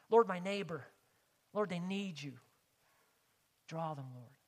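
earnest petition, easing down at the end; pleading prayer. Shown as a demonstration. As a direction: demonstrate praying for a neighbor. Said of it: "Isn't that the way we often pray".

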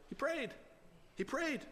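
high, soft and light; hushed marvel. Real, not acted. Preacher savouring the prophet's answer, hushed marvel. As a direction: repeat it softly in a high pitch.

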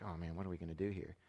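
low, hushed parental dismay, retold; worried aside. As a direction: sink into a quiet, worried aside. Parents' private worried reaction retold.

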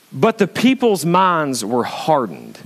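slow, weighted scripture reading; measured sermon emphasis; deliberate preaching. Acted. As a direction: spell it out slowly for the congregation. Preaches the verse.

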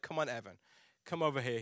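low, soft coaxing; gentle softie dad. Retold or imitated. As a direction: coax a crying child gently. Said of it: "I'm the softie of the relationship".

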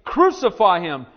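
loud, drawn-out cry; shouting crowd. Acted. Preacher reading the mob's answer to Pilate, shouting. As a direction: shout it slowly like a mob demanding death. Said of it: "but they shouted, saying".

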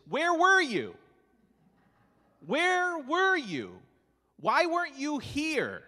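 loud, high, anguished cry of grief. Acted. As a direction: cry it out like a grieving sister. Preacher voicing Mary's angry cry.

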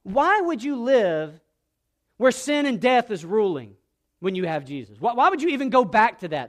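insistent, incredulous-sounding challenge; emphatic. Retold or imitated. Preacher voices Paul challenging believers who go back, emphatic. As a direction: press the question hard as Paul. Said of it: "He's emphatic because of everything".

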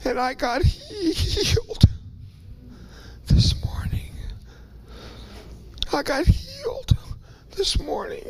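real tears, voice breaking into a whisper; fighting back sobs, barely getting it out; crying. Real, not acted. Preacher choked up telling the congregation of his healing, real tears. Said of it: "My voice goes away and I cry".

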